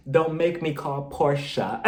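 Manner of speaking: slow line breaking into laughter; laughing. Pretend. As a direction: say it while cracking up. Imagined comeback, laughing through it.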